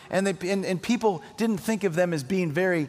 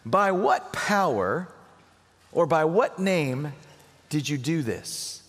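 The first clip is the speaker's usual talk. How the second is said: slow questioning; slower than usual. Acted. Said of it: "Let's look at their question".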